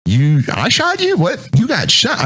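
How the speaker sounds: high, baffled questions; confused surprise. Retold or imitated. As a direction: sound totally thrown. Confused at wounded buddy.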